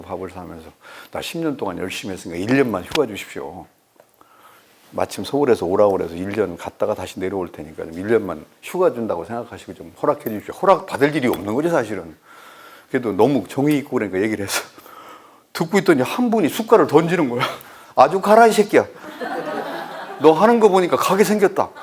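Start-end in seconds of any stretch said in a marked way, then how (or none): 1.1-10.5 low, softer request to elders; polite plea. Retold or imitated. Professor asks elders for one year's leave, retold polite plea. 17.9-21.7 angry dismissal. Retold or imitated. Hurt elder throws down spoon at leave request, acted angry dismissal.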